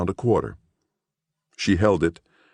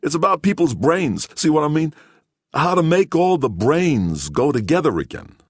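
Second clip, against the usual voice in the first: hopeless; 12 semitones higher, 4 dB louder than usual. Acted. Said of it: "Gerlich said hopelessly".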